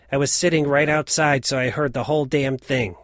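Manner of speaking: mock his father's sleep-talk with a loud, emphatic call. Son retelling his father calling out in his sleep, loud and emphatic. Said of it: "quite emphatically, he calls out".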